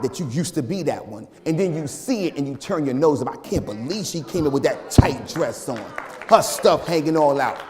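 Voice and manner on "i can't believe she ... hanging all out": louder scandalized gossip; judgmental gossip. Retold or imitated. Church lady judging a tight dress, scandalized. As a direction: sniff at her like a church busybody.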